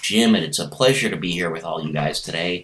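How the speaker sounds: lightly voiced courteous introduction; mock-polite, tidy self-presentation; white guy impression. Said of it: "white guy impression".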